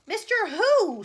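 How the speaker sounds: loud high scream of disbelief. A narrator's reading. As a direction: screech the question. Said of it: "screamed the president".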